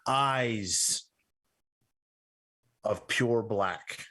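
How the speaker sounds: slow, measured narration with long pauses; game master's scene setting. A narrator's reading. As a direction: describe it deliberately, phrase by phrase. Game master describes the undead.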